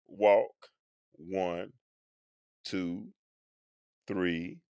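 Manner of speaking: very soft, low, slow count; calm counting. Shown as a demonstration. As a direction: model the calming count. Demonstrating calm counting technique.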